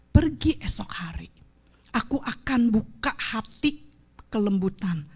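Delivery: gentle voice of God. Retold or imitated. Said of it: "God's voice retold".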